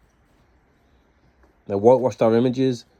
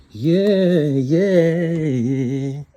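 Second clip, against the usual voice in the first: excited yeah; 4 semitones higher, 3 dB louder, much slower than usual. Real, not acted. Exclaiming after the long list.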